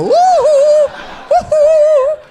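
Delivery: very high, loud falsetto woo-hoo; squealing cheer. Retold or imitated. Aunt cheering her niece in a squealing falsetto. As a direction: shriek it like a silly cheer.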